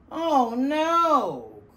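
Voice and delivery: high loud fuming cry; steaming germ. Acted. Fever germ steaming as it swirls down the drain. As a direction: fume as you're beaten. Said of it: "steamed the germ".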